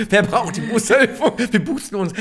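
high, giggling through the words; laughing. Real, not acted. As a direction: talk while still laughing at the joke. Laughing after the booster joke.

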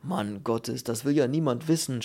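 annoyed shout. Acted. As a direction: cry out in irritation. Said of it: "schrie der Glatzkopf ärgerlich".

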